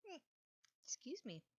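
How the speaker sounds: hiccupping mid-word; talking through hiccups. Real, not acted. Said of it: "I get the hiccups so bad".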